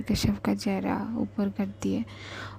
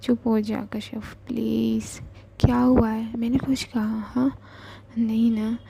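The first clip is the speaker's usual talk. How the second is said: tearful pleading. Acted. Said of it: "वो खुद भी रोने लगती है".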